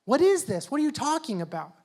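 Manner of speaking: rising, baffled disbelief; a hearer who just doesn't get it; confused listener. Retold or imitated. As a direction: sound bewildered by the idea. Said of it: "It's like".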